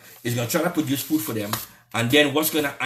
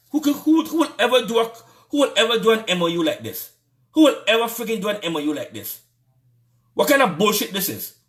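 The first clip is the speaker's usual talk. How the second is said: much higher and louder, incredulous; exasperated outrage; 8 semitones higher, 3 dB louder than usual. Real, not acted. Ranting vlogger outraged by the agreement, shouting in disbelief. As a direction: cry out in disbelief at the deal. Exasperated outburst over the deal.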